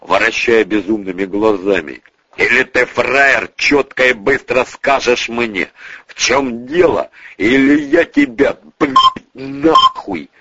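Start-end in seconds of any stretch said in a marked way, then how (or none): 2.4-10.3 threatening ultimatum. Acted. Boss threatens the stammering bodyguard.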